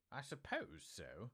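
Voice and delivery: wife's stiff grudging answer; stiffly. Acted. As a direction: say it coldly, unwilling. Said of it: "said Missus Dursley stiffly".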